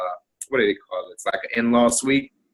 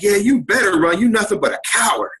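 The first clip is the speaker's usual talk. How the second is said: mock scream; 8 semitones higher than usual. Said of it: "my mother-in-law screams something at me".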